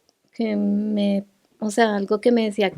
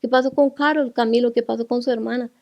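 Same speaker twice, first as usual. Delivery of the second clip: urgent pleading; 4 semitones higher, 4 dB louder than usual. Retold or imitated. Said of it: "Y yo les decía".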